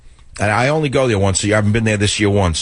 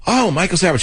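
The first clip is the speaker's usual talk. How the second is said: imitating Trump; 9 semitones higher than usual. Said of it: "he came up and he said".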